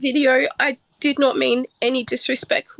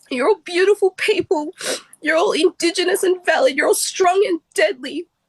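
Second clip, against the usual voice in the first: speaking through tears, tearful, pitched-up; 5 semitones higher than usual. Speaking to her Indigenous community as her family, crying while speaking. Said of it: "I'm sorry, I'm crying".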